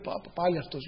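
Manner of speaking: dismayed stammer. Retold or imitated. Dismay at phone ringing.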